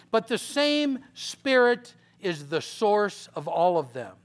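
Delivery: measured, solemn reading voice; preacher reading First Corinthians; scripture reading. Acted. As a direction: read the verses deliberately. Reads scripture aloud.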